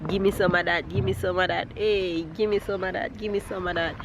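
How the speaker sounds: Jamaican patois. Shown as a demonstration. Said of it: "It's just the Jamaican pattern".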